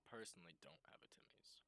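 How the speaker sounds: hushed whisper, like a confession. Real, not acted. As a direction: whisper it as a shameful secret. Confessing lack of Timmy's.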